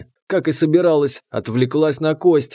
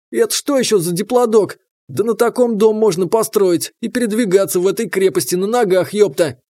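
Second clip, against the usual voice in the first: excited; 5 semitones higher than usual. Acted. Gaping at giant dinosaur mutant.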